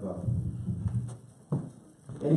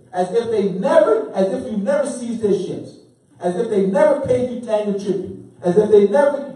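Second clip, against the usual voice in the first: mocking laugh; 5 semitones higher, 4 dB louder than usual. Real, not acted. Mocking the rewritten history.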